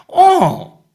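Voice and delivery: high, loud acted yelp; bursting, high-pitched assent; eager yes. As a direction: jump at the invitation. Duckling eagerly accepts invitation.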